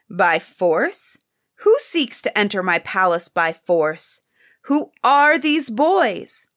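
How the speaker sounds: rising indignation, ending at the top; crying out. Acted. Emperor hearing boys forced their way in, building outrage. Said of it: "cried the emperor in the same breath".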